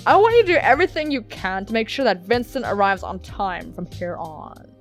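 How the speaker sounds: firm order posed as a request. Acted. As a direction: tell a subordinate what to do. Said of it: "His tone makes it sound more like an order".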